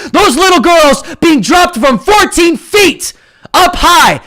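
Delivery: furious shout at Biden voters; angry shout. Real, not acted. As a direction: yell it in their faces.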